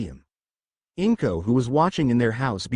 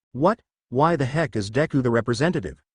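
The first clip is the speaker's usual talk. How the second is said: angry yell. Acted. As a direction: shout it in disbelief. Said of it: "Bakugo yelled".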